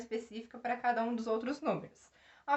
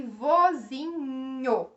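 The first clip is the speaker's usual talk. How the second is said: vo-zi-nho said slowly, syllable by syllable; split into syllables; 5 dB louder, much slower than usual. Shown as a demonstration. Teacher showing students the NH digraph, slow syllables. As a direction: say vozinho in slow distinct beats. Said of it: "ficam juntos o N e o H".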